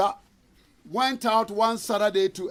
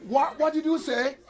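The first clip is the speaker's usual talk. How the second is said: higher, laughing what did you say; laughing disbelief; 6 semitones higher than usual. Retold or imitated. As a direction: ask it back, laughing in disbelief. Man can't believe the insult.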